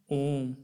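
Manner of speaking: ओम with the O held long; ओम as one long, level syllable; prolonged vowel. Shown as a demonstration. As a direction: draw out the O in ओम before closing on the m. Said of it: "गुना अधिक समय लगता है".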